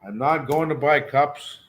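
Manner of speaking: spelled out fully and firmly; definite. Shown as a demonstration. Teacher making the sentence clearer, definite. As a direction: say it plainly and definite. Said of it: "That's quite definite".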